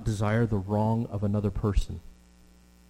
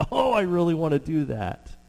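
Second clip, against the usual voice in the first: eager wish; 6 semitones higher than usual. Retold or imitated. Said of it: "you're just like".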